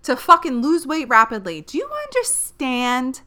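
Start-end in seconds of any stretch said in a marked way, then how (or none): 0.0-1.6 mocking celebrity voice. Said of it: "If they were to say".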